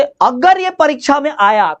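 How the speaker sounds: "अगर ये परीक्षा में आया" with the tone lifted on the opening words. Shown as a demonstration. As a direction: push up the pitch on "अगर ये परीक्षा", stretched for emphasis. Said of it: "जोर से थोड़ा बोला, टोन बढ़ा दिया मैंने".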